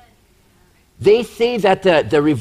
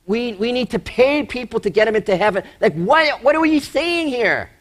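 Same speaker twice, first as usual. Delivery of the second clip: rising into high-pitched mock disbelief; incredulous questioning; 4 semitones higher than usual. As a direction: act baffled, pitch climbing as the question builds. Acting out disbelief at the scripture.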